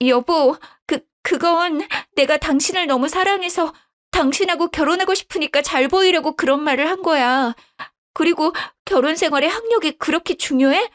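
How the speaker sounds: a caught liar begging sweetly; wife pleading with her husband. Acted. Daughter-in-law pleads, voiced high.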